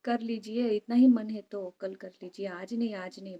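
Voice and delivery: put-on high, loud exasperated scold of the elderly parent; loud exasperated "हे भगवान" softening to a firm "आज नहीं". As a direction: throw up your hands, no water left, stop him. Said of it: "बाबा को ऐसा कहा".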